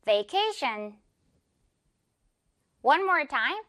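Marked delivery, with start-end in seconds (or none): 0.0-1.0 "Vacation" careful with buzzing v; clear V. Shown as a demonstration. Teacher leading last word, careful demo. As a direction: linger on the v of "Vacation". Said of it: "V 발음".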